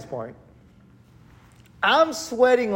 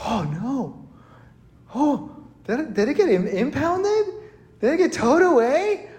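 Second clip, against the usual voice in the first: rising, higher-pitched alarmed questions; retold panic; 6 semitones higher than usual. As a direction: act out dawning panic at a loss. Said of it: "I was panicking at this point".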